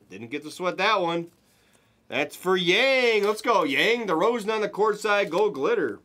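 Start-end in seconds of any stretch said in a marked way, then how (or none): 2.1-6.0 excited cheer. Real, not acted. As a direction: cheer the hit on. Cheering a hit for a buyer.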